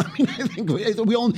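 high-pitched talk through a laugh; real amused laughter in the words. Real, not acted. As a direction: start the thought still chuckling. Laughs at his own joke.

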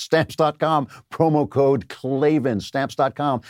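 slow, over enunciating the ad. Shown as a demonstration. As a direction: spell out every syllable slowly. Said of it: "I say it slowly because you".

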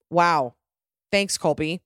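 mock-impressed deadpan thanks; sarcastic. Real, not acted. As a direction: thank him with dry sarcasm. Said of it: "I'm saying this all sarcastically".

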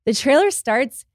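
slow, drawn-out star announcement; movie star announcement. Retold or imitated. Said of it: "when the stars come on and say".

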